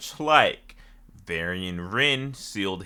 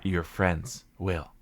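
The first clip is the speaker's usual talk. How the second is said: Cthulhu voice; 5 semitones lower, slower than usual. Retold or imitated. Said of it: "when I heard Cthulhu".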